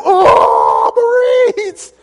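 hammed-up battle cry, high and loud; gung-ho shout. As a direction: yell it like a fired-up young recruit. Recruit shouting charging with rifle.

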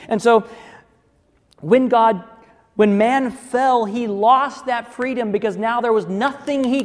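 loud, driving pulpit preaching; preaching at full force. Acted. Preacher pressing the congregation on free choice, loud and driving. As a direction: hammer the point home to the congregation.

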